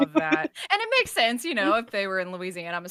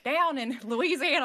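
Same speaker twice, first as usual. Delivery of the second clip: put-on Southern accent; 5 semitones higher than usual. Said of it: "That Southern accent".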